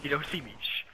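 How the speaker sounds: hushed, hiding whisper. Real, not acted.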